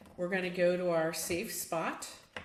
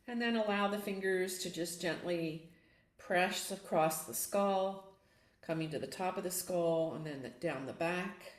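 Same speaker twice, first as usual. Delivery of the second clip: gentle yoga nidra guidance with long pauses; guided meditation. Acted. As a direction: guide them unhurriedly through a relaxing self-massage, pausing between steps.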